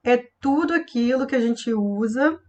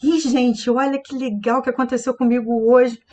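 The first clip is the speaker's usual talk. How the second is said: attention-grabbing. Shown as a demonstration. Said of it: "se eu quiser chamar atenção".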